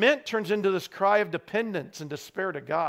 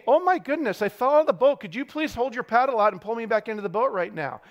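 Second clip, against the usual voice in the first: higher-pitched, over-composed mock plea; mock politeness from the water; mock polite request; 3 semitones higher, faster than usual. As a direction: act out an absurdly courteous call for rescue. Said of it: "they are not saying".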